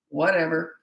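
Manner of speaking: bored Whatever, no reaction; dismissive whatever. Shown as a demonstration. Parent ignoring the child, dismissive. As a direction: brush it off flatly. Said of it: "and you went like this".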